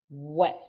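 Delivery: "what" as a rounded "weh"; isolated, clearly modelled W; English W sound. Shown as a demonstration. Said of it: "W sounds we".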